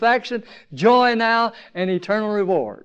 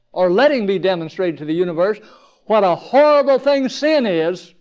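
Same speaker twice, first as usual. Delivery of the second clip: emphatic, louder and lifted preaching voice; strong preaching; 3 semitones higher, 4 dB louder than usual. Real, not acted. Preacher pressing the congregation about God's plan, strong and emphatic. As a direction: drive each phrase home forcefully. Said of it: "talking too fast or too strong".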